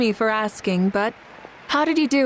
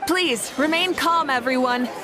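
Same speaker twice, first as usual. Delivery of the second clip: calling out to the crowd; 5 semitones higher than usual. Acted. Addressing the agitated crowd.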